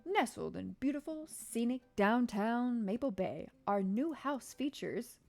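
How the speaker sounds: slow, drawn-out, cheesy real estate pitch; cheesy ad announcer, every word stretched. Acted. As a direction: sell the new house like a corny TV ad. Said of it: "do my best cheesy announcer voice".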